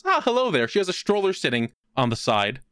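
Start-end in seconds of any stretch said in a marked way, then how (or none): 0.0-0.7 put-on old woman voice. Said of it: "She goes".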